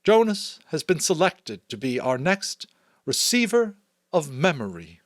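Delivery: the Chief Elder proclaims the selection, firm and commanding. A narrator's reading. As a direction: announce it with full authority to the crowd. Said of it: "In a firm, commanding voice".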